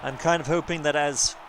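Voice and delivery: half-numb mouth, slightly slurred; numb from the dentist. Real, not acted. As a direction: talk through a numb mouth. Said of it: "half of my mouth is still numb".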